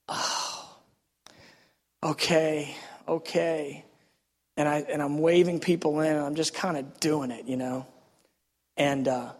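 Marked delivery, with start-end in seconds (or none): 0.1-3.8 hushed, soft surrender; humbled giving in. Retold or imitated. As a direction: breathe out a quiet acceptance. Gives in to God.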